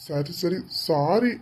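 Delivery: soft, low, sheepish sorry; meek apology. Acted. Husband begging forgiveness from angry wife, soft meek sorry. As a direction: shrink back and mumble sorry.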